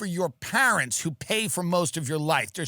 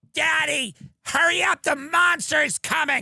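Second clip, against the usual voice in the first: put-on child voice, high and slow; 9 semitones higher than usual. Acting out the kids in the back seat: put-on kid voice. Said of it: "your fat kids with their sticky little fingers are in the back".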